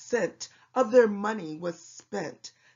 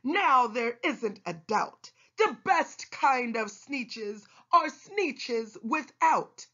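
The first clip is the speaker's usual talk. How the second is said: proud shout; 5 semitones higher than usual. Acted. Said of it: "they let out a shout".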